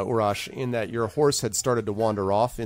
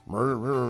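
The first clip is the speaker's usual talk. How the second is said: murmur of commotion. Pretend. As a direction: mumble like far-off commotion. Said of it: "hear the sound of".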